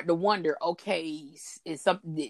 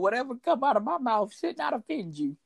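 hushed playful aside; whispering; 4 semitones higher than usual. Acted. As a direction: whisper it like a secret. Playful aside after cussing remark.

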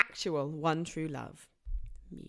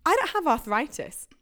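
hammed-up celebrity quote; 2 semitones higher, 3 dB louder than usual. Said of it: "a direct quote".

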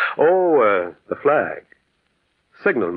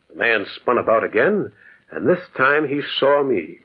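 ordinary delivery

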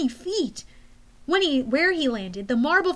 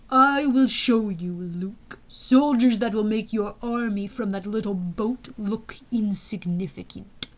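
menacing general; 3 semitones lower than usual. Acted.

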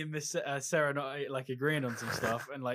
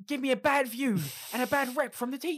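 mock remorse; 12 semitones higher, 3 dB louder than usual. Mocking remorseful student voice.

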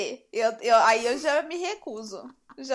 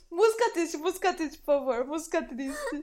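quoting the meme. Retold or imitated. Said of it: "Quando ele fala".

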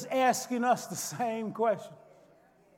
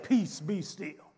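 soft, slow, calm authority; hushed command; 6 semitones lower, 5 dB quieter, slower than usual. Acted. Jesus quietly stilling the storm, soft and slow. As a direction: say it gently, no need to raise it.

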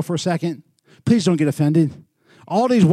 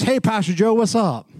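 lightly imitated, raised-pitch hail; street guy's greeting; 4 semitones higher than usual. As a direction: call out like a guy walking up. Retold greeting from street guy.

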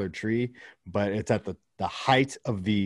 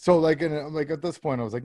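usual speaking voice

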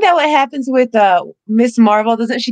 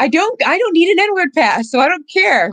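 insistent, slightly raised voice; 3 semitones higher than usual. Real, not acted. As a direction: push back firmly, a little higher. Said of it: "why are you yelling?".

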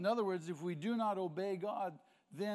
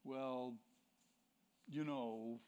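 mock hedging excuse; 4 semitones lower than usual. Mimicking someone blaming others.

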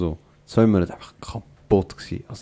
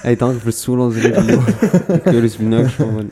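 laughing mock sign-off; 2 semitones higher, 6 dB louder than usual. Joke sign-off amid laughter.

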